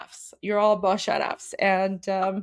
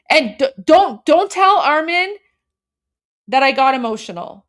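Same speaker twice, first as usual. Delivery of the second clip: playful plea; 2 semitones higher, 7 dB louder than usual. Real, not acted. Pleading with viewers half-jokingly.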